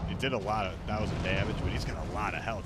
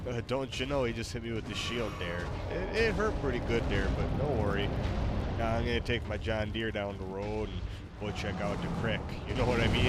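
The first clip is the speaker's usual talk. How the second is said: lightly put-on Wisconsin accent; mock Wisconsin accent. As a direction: playfully talk like a rural Wisconsin local. Copies the assigned Wisconsin accent.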